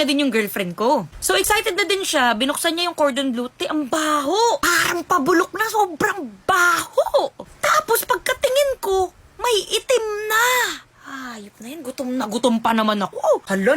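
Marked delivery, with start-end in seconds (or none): 3.5-10.5 high, drawn-out disgusted wail, near tears; hammed-up crying complaint, pitched up high; mock wail. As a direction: whine it like it's the end of the world. Telling about the rotten cordon bleu.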